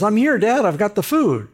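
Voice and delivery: high, loud announcement to Dad; eager son calling. Acted. Esau arriving with food for his blind father, eager calling. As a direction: call out brightly as the arriving son.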